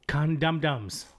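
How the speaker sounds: "Condum-dums" with the dum doubled; misspelling read literally. Shown as a demonstration. Mocking the chatter's spelling, "Condum-dums" with full dums. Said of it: "He spells it D U M S".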